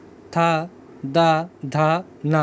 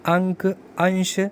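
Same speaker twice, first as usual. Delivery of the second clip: slow example words; slower than usual. Shown as a demonstration. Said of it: "जैसे अंग".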